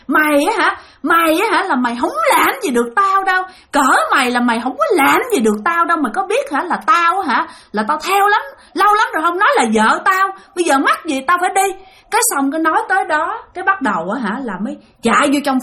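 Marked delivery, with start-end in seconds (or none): 0.1-11.7 lightly raised, arrogant ghost voice; haughty ghost. Retold or imitated. Possessing ghost sneers at the father, arrogant voice. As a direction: sneer it like a bully spirit talking down. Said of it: "ổng nói rằng á là".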